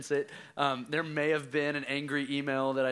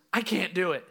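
put-on mildly urgent kid's cry, higher; struggling child; 5 semitones higher, 4 dB louder than usual. Dad imitates son surfacing during swim test, struggling child. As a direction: imitate a tiring young swimmer calling out. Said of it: "more urgency in his voice".

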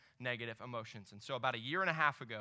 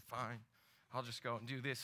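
annoyed mutter; 2 semitones lower, 6 dB quieter than usual. Retold or imitated. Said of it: "kind of annoyed and angrily, just under my breath".

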